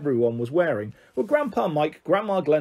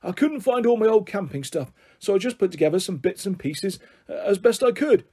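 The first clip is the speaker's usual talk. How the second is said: lightly voiced higher-pitched old eccentric; rambling grandpa; 4 semitones higher than usual. Grandpa tells children about his camping stuff, rambling. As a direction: carry on explaining, regardless.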